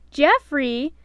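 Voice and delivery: loud rising surprise; all together, astonished; surprised exclaim. A narrator's reading. The dwarfs hearing Geoffrey's name, surprised. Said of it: "the dwarfs exclaimed in union".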